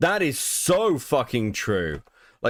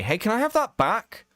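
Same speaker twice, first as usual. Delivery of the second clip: higher, mock-eager ask for money back; mock pushy friend; 7 semitones higher than usual. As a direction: lightly play the friend who wants it back. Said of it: "they're like".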